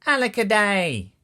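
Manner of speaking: high, loud wail of being left out; hammed-up storybook lament; cried out. A narrator's reading. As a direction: wail it like a little one left behind. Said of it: "And he cried".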